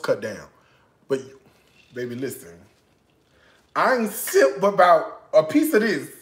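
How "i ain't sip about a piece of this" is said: laughing through the line. Real, not acted. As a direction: giggle it out. Tasting food, laughing.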